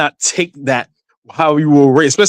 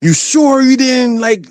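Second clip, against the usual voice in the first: suspicious mother; 7 semitones higher than usual. Retold or imitated. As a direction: press him like a doubtful mother. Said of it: "she was like".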